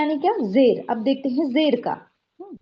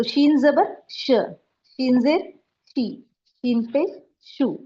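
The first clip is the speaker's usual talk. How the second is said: slow teaching drill; slower than usual. Shown as a demonstration. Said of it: "अब देखिए शीन ले".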